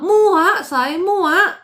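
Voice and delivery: a sudden loud burst of disgust; fed up. Real, not acted. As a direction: spit out the word in exasperation. Fed-up outburst.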